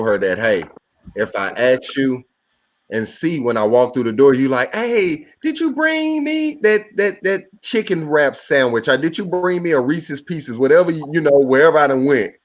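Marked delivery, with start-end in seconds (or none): 4.7-10.6 high, sweet asking voice; high girlfriend voice. Retold or imitated. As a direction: squeak it out like a girlfriend. Partner voiced asking for snacks.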